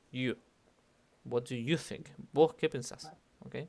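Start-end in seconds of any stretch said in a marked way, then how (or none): 1.2-2.1 YOU singled out in the question; stress on YOU. Shown as a demonstration. Teacher asking you in particular, stress on YOU. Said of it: "vos en específico". 2.3-3.1 Vos up high at the start; stress on VOS. Shown as a demonstration. Teacher translating for one person in particular, stress on VOS. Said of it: "vos en específico".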